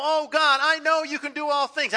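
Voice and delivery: doubting pray-er. Retold or imitated.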